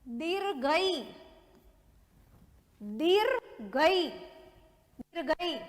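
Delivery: दीर्घई बहुत धीरे, साफ़ खींचकर; शब्द दीर्घई को धीरे-धीरे लिखवाते हुए बोलो; dictation repeat. Shown as a demonstration. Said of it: "मैं वर्ड वापस से बोल रही हूँ". (दीर्घई धीमे, स्पष्ट उच्चारण में)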